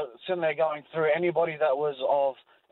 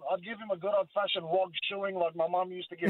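laughing; 4 dB quieter than usual. Real, not acted.

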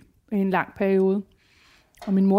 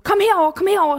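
higher, louder eager calling; calling daughter; 9 semitones higher, 3 dB louder, faster than usual. Retold or imitated. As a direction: daughter beckoning her mother. Daughter calling her over. (datteren kalder, højere og ivrigt)

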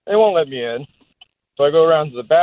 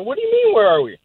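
retold baffled bartender; 13 semitones higher than usual. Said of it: "I said".

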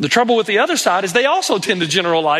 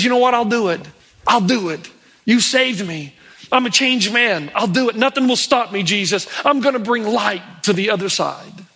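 acted resolve, lightly raised; determined; 3 semitones higher than usual. Changed man promises Jesus to stay and tell, resolved. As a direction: play a man making up his mind. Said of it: "gets a look of determination and a definitive resolve".

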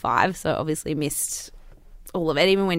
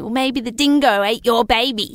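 higher, louder sarcastic Elaine quip; Elaine's mocking line; 5 semitones higher, 7 dB louder than usual. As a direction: toss it off with a sarcastic sneer. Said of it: "she says it like that".

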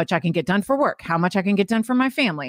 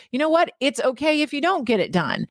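higher-pitched, upbeat reassurance; little inner cheerleader; 5 semitones higher than usual. Acted. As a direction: perk up and let yourself off the hook. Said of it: "my own little cheerleader inside".

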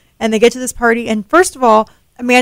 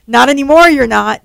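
higher, louder mock-aggressive start; 3 semitones higher, 4 dB louder than usual. Amanda tells Chloe off over Brandon, mildly aggressive. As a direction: push back hard on the first words. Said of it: "like, aggressive".

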